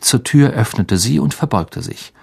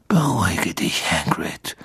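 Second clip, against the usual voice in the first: low-volume, curt command; soft but stern reprimand; brusque; 3 semitones lower, 6 dB quieter than usual. A narrator's reading. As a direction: hush him sternly, falling away. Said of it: "sagte Dumbledore barsch".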